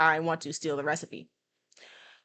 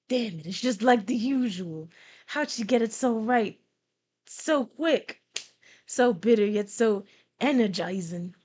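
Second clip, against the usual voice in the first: lightly voiced rival, a touch amazed; mildly hammed-up reluctant admiration; grudgingly impressed Grudge; 3 semitones higher, 3 dB louder than usual. Voices Grudge tasting the coffee.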